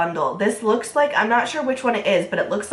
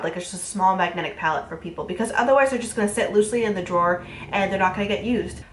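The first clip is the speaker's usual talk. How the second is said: stuffy nasal voice from a cold; nasally voice; faster than usual. Real, not acted. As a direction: talk through a blocked, nasal nose. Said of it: "I'm so sorry for my nasally voice".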